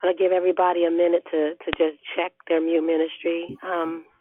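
hoarse, barely-there voice; lost voice. Real, not acted. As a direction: speak with almost no voice left. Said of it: "I have no voice".

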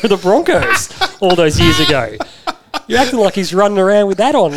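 laughing while talking. Real, not acted. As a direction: laugh through the words.

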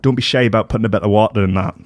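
quick, badly faked Scottish accent; terrible Scottish accent. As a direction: rattle it off in a poor attempt at Scottish. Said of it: "That was a terrible Scottish accent".

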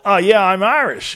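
lightly done mock American accent; a hint of an American proudly claiming to be Irish; mocking Americans who say they're Irish, in a light American accent; bad American impression. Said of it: "that was a bad, uh, impression".

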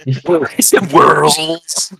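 very slow, laughing through the words; amused laugh while speaking. Real, not acted. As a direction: giggle it out at the joke.

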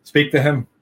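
slow, exasperated machine voice; a bored sigh, then hand off; fed-up robot. Retold or imitated. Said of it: "gives up and goes".

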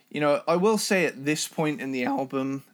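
hoarse voice cracking mid-sentence. Real, not acted. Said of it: "oh, voice cracked there".

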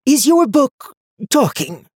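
high, slow, wondering question; puzzled old woman. A narrator's reading. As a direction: ask it slowly, baffled. Seer startled by talking book.

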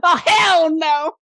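high, loud gnome voice in alarm; squeaky gnome dismay, drawn out; horrified gnome. Acted. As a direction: balk loudly as a frightened little gnome. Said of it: "And the gnome's just like".

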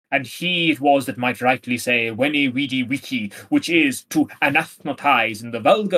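lightly voiced arrogant letter-writer; mildly pompous love-letter recital; pretentious Armado. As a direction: read it with a touch of self-important pomp, question then answer. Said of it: "most pretentious and arrogant person imaginable".

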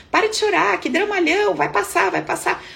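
high, hurried imitation of a dismissive dad; mock-exasperated dad telling her to stop; dad scolding mom. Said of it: "Olha como ele falava com a mamãe".

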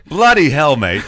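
hammed-up British exclamation; a loud, cheeky fake British bloody hell; playful fake British accent; mock British accent. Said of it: "fake British accent".

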